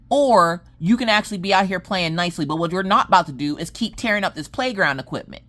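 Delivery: stern mama lecture. Retold or imitated. Lecturing kids at playground.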